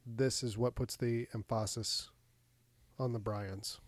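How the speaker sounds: "Bryans" said as brains with the wrong stress, on purpose; wrong emphasis on purpose. Shown as a demonstration. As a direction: say "Bryans" for brains as a running joke. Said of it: "No, I did on purpose".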